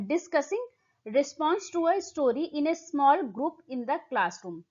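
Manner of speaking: slow, deliberate exam-question read. Acted. Teacher reading the question text slowly to students. Reads option aloud slowly.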